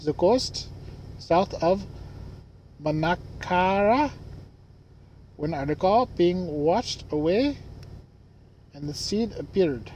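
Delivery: put-on uncertain, made-up Madagascar accent; attempted Madagascar accent. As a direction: read it haltingly in a vague attempt at a Madagascar accent. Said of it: "I don't know what accent that is".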